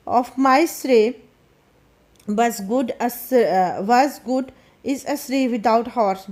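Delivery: slow, careful reading aloud of the English text; slow story reading. A narrator's reading. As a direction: read each phrase slowly for the class. (धीमी कहानी पढ़ाई)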